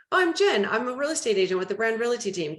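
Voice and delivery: bright start, then rushing through the rest; rushed cold call intro. Retold or imitated. Agent on a cold call, repeating her name, hurried. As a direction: hurry the pitch before they hang up.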